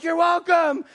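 high shouted courtesy; comically strained acknowledgment; alarmed politeness. Retold or imitated. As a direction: yell politeness over someone who won't stop. Overwhelmed reply to gushing thanks.

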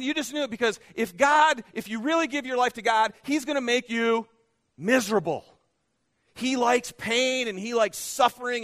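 loud, driving preacher voice; rising to a loud pulpit pitch; full-force preaching. Acted. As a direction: preach it hard to the room.

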